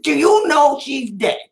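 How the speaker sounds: a slow, deliberate, loaded question; slow it down and let the gotcha land; deadpan gotcha. Shown as a demonstration. Advocate re-enacts cornering the director at the hearing, slow and deadpan. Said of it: "I said it just like that".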